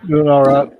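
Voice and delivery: slightly winded, catching breath. Real, not acted. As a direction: talk while short of breath. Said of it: "A little out of breath".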